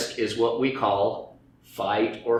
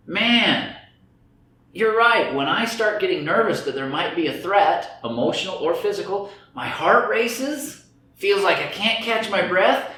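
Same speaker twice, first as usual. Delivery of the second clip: anxious; 5 semitones higher than usual. Acted. Voicing an anxious audience member.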